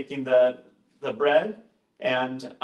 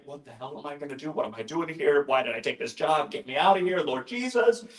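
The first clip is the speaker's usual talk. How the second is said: mock panic. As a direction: build from muttered worry to pleading. Acting out his inner panic.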